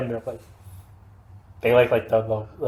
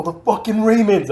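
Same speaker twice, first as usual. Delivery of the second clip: high-pitched, mildly raised mock outrage; imitated fury; 9 semitones higher, 4 dB louder than usual. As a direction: imitate a furious friend insisting. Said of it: "he was fucking furious".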